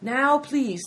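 emphatic, over-polite refusal; fussy innkeeper. A narrator's reading. Innkeeper fussily refuses the pail.

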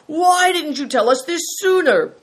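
outraged question; exasperated cry. A narrator's reading. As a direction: berate him at the top of the voice. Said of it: "cried Greencoat".

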